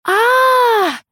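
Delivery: long high-pitched scream from upstairs; sudden terrified woman's scream. A narrator's reading. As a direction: shriek in terror, loud and high. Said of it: "раздался со второго этажа крик".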